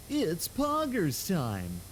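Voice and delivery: "Poggers time" drawn out slowly, very slow and deliberate; slow hype call. Pretend. Streamer finally getting through her hype line, drawn out slowly. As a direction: stretch each word of "Poggers time" out like a hype announcer. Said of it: "can't even say that without laughing".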